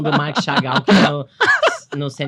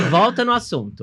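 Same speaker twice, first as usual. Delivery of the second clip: laughing; 7 semitones higher than usual. Real, not acted. Scolding partner, laughing.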